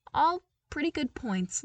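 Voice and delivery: put-on lighter, upbeat young voice; bright eager invitation; cheerful Luke. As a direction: friendly call to the troopers.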